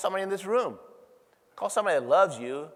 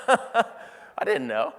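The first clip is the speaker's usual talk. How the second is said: laughing disbelief; 5 semitones higher, much slower than usual. Real, not acted.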